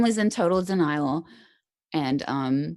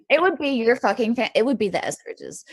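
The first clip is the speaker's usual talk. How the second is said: excited repeat; 7 semitones higher than usual. Real, not acted. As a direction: burst out with the line again, tickled. Laughing retelling of friends' joke.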